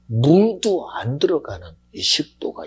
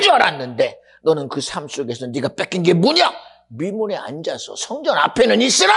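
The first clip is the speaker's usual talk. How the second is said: raised, pressing preacher's challenge; impassioned preaching; 9 semitones higher, 5 dB louder than usual. Acted. Preacher challenging congregation over stolen praise, impassioned. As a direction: confront the congregation with rising force.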